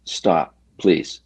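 calm monotone. Retold or imitated. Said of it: "in my calm, in a monotone voice".

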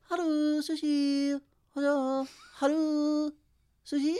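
high, clipped restaurant phone greeting; phone order guy impression. Imitating the sushi place guy answering the phone. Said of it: "have the perfect impression of, like, the guy who answers the phone".

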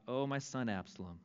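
hushed, broken father's lament; grieving lament. Acted. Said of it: "And thus he said as he walked".

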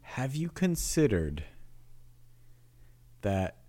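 lightly voiced golf commentator. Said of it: "You have, like, a golf commentator voice on now".

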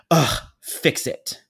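slow, drawn-out irate order; groan, then order it slowly; exasperated demand. Retold or imitated. Screaming planner demanding a fix, exasperated. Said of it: "She continued to scream at me".

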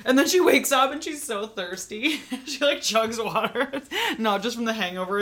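words bubbling with laughter; laughing while talking. Real, not acted. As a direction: laugh through the telling. Laughing while telling story.

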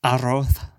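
lisping Spaniard imitation; Jim Carrey's Cable Guy. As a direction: turn every s into a th. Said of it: "Jim Carrey's cable guy".

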